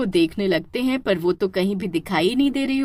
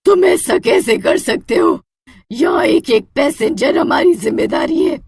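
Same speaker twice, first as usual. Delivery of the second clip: higher, louder outraged rebuke; indignant scolding; 8 semitones higher, 5 dB louder than usual. Acted. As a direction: tell off the culprits. Hostess scolds the men.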